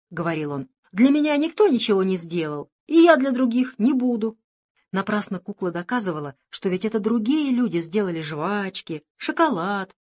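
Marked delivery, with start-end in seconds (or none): 0.9-4.4 stubborn. Acted. Boy stubbornly refuses.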